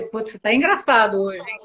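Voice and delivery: light teasing remark in one easy breath; playful teasing. Shown as a demonstration. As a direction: tease them lightly and smoothly. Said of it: "A entonação é diferente". (tom brincalhão e provocador, sem pausas)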